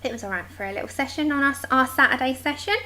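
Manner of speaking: talking right after a gulp of tea; gulping a drink. Real, not acted. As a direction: speak while swallowing tea. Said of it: "If you can hear me gulping".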